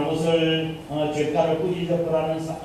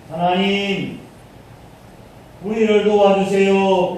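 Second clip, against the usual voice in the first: louder, slowed cry for help to God; desperate plea; 4 dB louder, slower than usual. Acted. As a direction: plead with God, drawing it out. Crying out to God in prayer. (하나님께 절박하게 부르짖듯)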